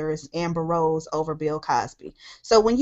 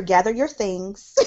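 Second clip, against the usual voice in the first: mock sassy gather. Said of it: "I hear".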